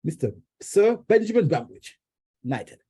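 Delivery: high, ceremonious title call; mock royal herald; grand announcement. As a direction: announce him like a herald at a knighting. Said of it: "therefore be knighted".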